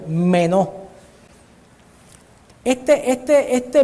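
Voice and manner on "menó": "menó" set apart, its E stressed. Shown as a demonstration. Preacher repeating the Greek word, accent on the e of "menó". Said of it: "con acento en la E".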